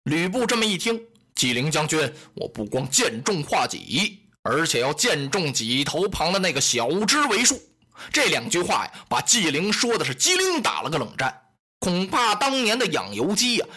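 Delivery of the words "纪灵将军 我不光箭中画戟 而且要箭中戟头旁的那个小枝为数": a lightly voiced warlord laying down terms; Lü Bu's voice. Lü Bu setting terms for the two generals, lower and formal. Lü Bu boasts to Ji Ling.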